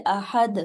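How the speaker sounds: احد with the final dal bounced; qalqala on dal. Shown as a demonstration. Teacher demonstrating qalqala on احد. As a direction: say احد ending in a bounced دال. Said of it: "جب ہم دال کو ساکن کرتے".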